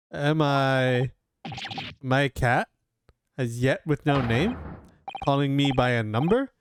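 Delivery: a sulking inmate protesting his number; indignant prisoner. Acted.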